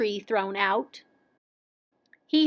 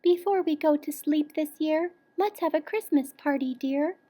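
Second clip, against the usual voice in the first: drowsy yawning; 5 semitones higher than usual. A narrator's reading. Mama bear admires the present, sleepily. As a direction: yawn it out drowsily. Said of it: "yawned Mama Bear quite drowsily".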